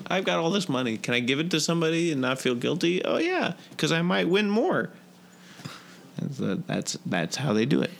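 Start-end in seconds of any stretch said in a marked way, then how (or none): 0.1-3.0 mock rich guy. Mocking rich gambler's thought. 3.0-4.9 mock sarcasm. Mocking gambler's excuse.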